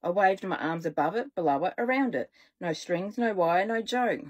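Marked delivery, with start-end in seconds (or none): none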